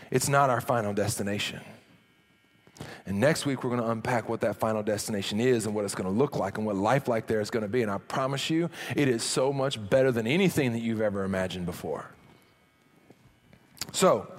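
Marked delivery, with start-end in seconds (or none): 0.1-12.1 softer earnest promise. Real, not acted. Sermon point lands softly.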